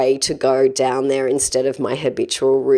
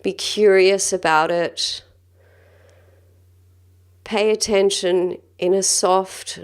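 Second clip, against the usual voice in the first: calm, gentle guided-breathing voice; measured meditation guide, leaving space between phrases. Acted. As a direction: lead them through breathing with long, unhurried pauses.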